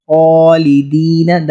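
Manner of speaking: خالدین with a full, heavy خا stretched long; heavy kha. Shown as a demonstration. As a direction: thicken and lengthen the خا in خالدین. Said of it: "خا کو پر موٹا کر کے".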